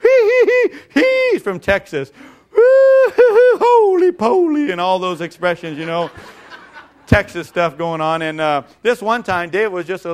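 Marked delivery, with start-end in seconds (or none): 0.0-4.7 put-on high, loud cackling old grandpa; grandpa's teasing laugh. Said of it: "then he'd start laughing".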